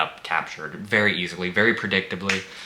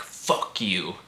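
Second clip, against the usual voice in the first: a softer, limp "Fuck you" with no bite; weak mock defiance; 3 semitones lower, 7 dB quieter than usual. Mocking the heroine's line to the masked killer, half-hearted defiance. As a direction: toughness that falls flat. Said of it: "it was not tough either".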